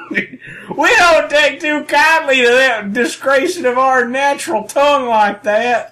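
high, slow indignant hick voice; hammed-up redneck reproach, drawled high; redneck Cockney. Cockney objecting to the actor's accent, redneck Cockney. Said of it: "I guess in traditional Cockney".

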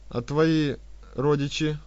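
slow, mocking question; smirking. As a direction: let a smirk colour родичи. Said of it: "произнёс с усмешкой".

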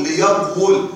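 "ليقول" as li-yaq-wul, sounded w; underlying form. Shown as a demonstration. Teacher explaining the original form, consonantal w sounded. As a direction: say "ليقول" with a closed q, then wul. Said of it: "والأصل".

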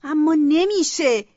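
slow, crying plea; dragging the words out through tears; tearful protest. Acted. Sister begging dad, slow and tearful.

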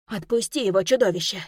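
loud, desperate shout. Acted. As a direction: yell at the monster to let go. Heroine shouts at monster.

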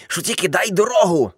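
ordinary delivery

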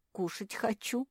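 high-pitched hungry whine; whining. A narrator's reading. Naretta begging for food, whining. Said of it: "заныла Наретта".

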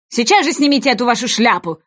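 quick king's order, lightly voiced; king ordering the witness, quick; brisk order. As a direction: snap out the demand. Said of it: "приказал король страннику".

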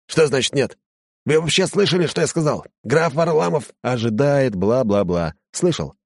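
huffy, pompous and outraged; indignant servant. Acted.

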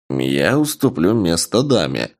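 tipsy, tongue a little thick; slightly slurred. Acted. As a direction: speak like a slightly drunk archer. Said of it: "немного заплетающимся языком произнёс лучник".

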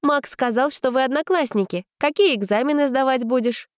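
put-on high eager girl voice; girlish voice. A narrator's reading. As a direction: keep the chat going eagerly. Vika asking eagerly.

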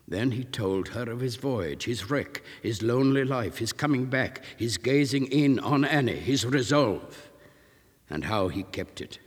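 ordinary delivery

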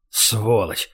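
a low, soft, venomous hiss; hissed insult. A narrator's reading. Oleg to Gosh as he leaves, a quiet hiss. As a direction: spit the insult out under your breath. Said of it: "прошипел Олег".

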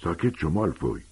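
Harry quietly warning Malfoy to shut up. A narrator's reading. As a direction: hush him under the breath. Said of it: "آهسته به مالفوی گفت".

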